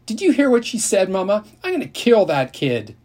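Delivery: high, loud furious shriek; outraged yell. A narrator's reading. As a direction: scream it to Mama, outraged. Sisters quarreling over insult.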